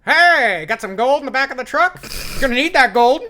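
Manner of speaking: high, loud prospector holler; hee-haw prospector. Acted. Host imitating dad, hollering hee-haw prospector voice. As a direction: crow it like an old gold-rush prospector. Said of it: "a hee-haw prospector voice".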